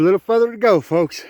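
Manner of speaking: winded from the uphill climb; puffing between words, legs burning; cycling breathless. Real, not acted. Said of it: "my legs are burning".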